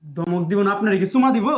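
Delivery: scolding. Acted. Son-in-law scolding his father-in-law back, indignant. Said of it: "ধমক দেস".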